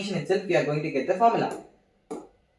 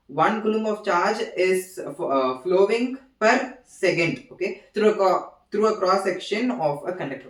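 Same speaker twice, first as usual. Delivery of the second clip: awkward reading; 3 semitones higher than usual. Real, not acted. Teacher reads a definition aloud to students, awkward and halting. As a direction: read it out laboriously, stumbling and restarting. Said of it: "Why am I reading like this? Oh, it's very awful".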